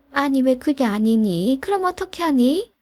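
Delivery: plead, rising in frustration; mother-in-law pressing her son's fiancée, exasperated. Acted. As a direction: voice jumps high on the last question. Mother-in-law pushes daughter-in-law.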